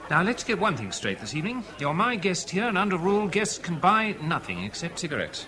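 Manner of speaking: hearty command. Acted. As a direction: boom it out like the club host. Host laying down club rules.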